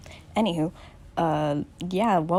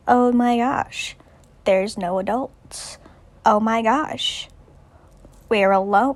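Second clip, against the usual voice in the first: slow, slightly raised mock dismay; acted stranded boys; 3 semitones higher, slower than usual. Stranded boys after the plane crash, mock dismay. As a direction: lightly act out stranded kids, drawn out. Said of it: "together they're like".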